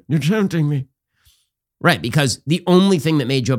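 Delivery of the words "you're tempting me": lightly voiced grinning "tempting me", a hint of the Joker; Joker grin. Biden imitated as the Joker, answering Muir with a grin. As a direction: say "tempting" through a sly grin. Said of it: "Joker grin".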